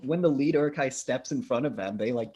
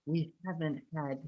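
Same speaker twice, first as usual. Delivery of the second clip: orc voice; 5 semitones higher, slower than usual. Acted. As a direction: grumble it like a hungry orc, stretching the words. Quotes an orc from the film.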